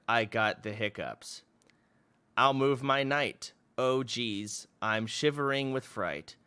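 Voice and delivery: put-on slow, sing-song childhood poem; reading his old chess poem aloud, slow and rhythmic. Shown as a demonstration. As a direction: read your kindergarten rhyme with mock gravity. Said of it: "let me read it".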